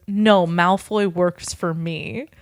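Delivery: slow, smug reveal; smug villain. Acted. Tom slowly taunting Hermione that Malfoy works for him. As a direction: let it out slowly, savoring the reveal.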